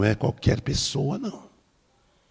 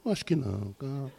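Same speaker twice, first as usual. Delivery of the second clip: soft, soothing reply; quietly calm a panicking passenger; hushed, gentle reassurance; retold reassurance; 3 semitones higher, 9 dB quieter than usual. Pastor reassures frightened passenger.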